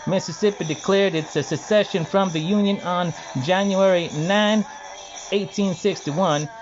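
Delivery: a light, rhythmic Hal Mississippian lilt leaning on the U vowels; Hal Mississippian dialect. Shown as a demonstration. First reading of an article for viewers, mild Hal Mississippian dialect. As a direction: read it with a lightly put-on Hal Mississippian dialect, keeping time to the beat. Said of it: "reading in the, uh, Hal Mississippian dialect".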